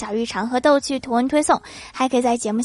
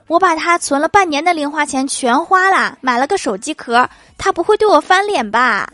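higher, louder, anxious sister-in-law; timid confession; 4 semitones higher, 4 dB louder than usual. Acted. Sister-in-law nervously confessing to narrator about the phone case. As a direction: confess it nervously, fishing for comfort. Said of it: "小心翼翼地说".

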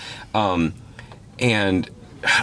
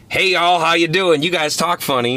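high, loud, hammed-up Southern-style hello; exaggerated folksy welcome, pitched way up; mock hearty greeting; 9 semitones higher, 4 dB louder than usual. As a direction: tease visitors in a put-on chirp, easing off at the end. Mock greeting never said to visitors.

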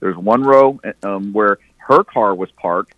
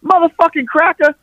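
much higher, louder acted angry threat; mock yelling threat; 3 dB louder than usual. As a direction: bark the threat up high. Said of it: "now he's yelling".

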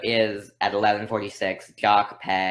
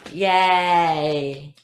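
excited yay; 7 semitones higher, 5 dB louder than usual. Real, not acted. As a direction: gasp then a high, loud cheer. Celebrating correct answer.

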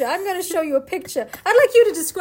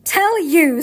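witch voice; 2 semitones higher, 6 dB louder than usual. Acted. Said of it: "said the witch".

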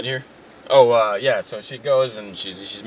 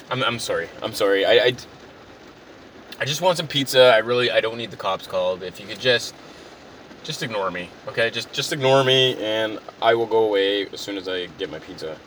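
subdued, halting apology; sheepish backing down; 2 semitones lower than usual. Acted. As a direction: retreat meekly and plead to be ignored. Customer backs down again, acted.

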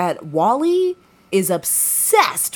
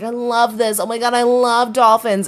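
higher, gushing imitation; fake excited; 4 semitones higher than usual. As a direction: gush with put-on enthusiasm. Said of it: "so fake excited about it".

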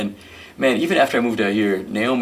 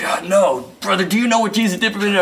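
much higher, louder and fast repeat; exasperated insistence; 11 semitones higher, 5 dB louder than usual. Retold or imitated. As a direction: push the question harder, impatient. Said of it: "And he's like".

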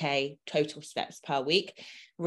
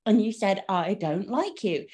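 mock accusing woman; 3 semitones higher, 3 dB louder, slower than usual. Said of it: "She was so dramatic".

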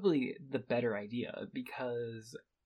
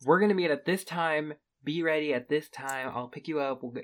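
firm plan; 6 dB louder than usual. Retold or imitated. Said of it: "yo is disrespectful".

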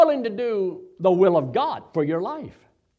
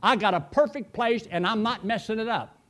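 God refusing; 4 semitones higher than usual. Retold or imitated. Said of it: "And God said".

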